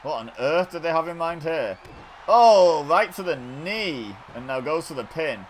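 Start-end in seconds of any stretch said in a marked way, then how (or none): 2.3-4.2 loud, higher burst of reaction; excited exclamation. Real, not acted. Commentator reacting to a hit on the knee, excited. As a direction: cry out as the blow lands.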